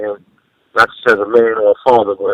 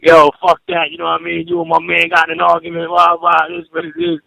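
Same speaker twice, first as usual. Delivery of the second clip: mildly heated retold rant, pitched up; pissed off; 5 semitones higher than usual. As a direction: imitate an annoyed friend venting. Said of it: "He was all pissed off".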